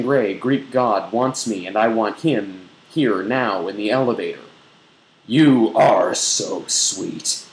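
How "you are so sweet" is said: slow, drawn-out sultry murmur; mock-seductive slow murmur. A narrator's reading. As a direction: purr it out, each word stretched. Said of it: "he murmurs".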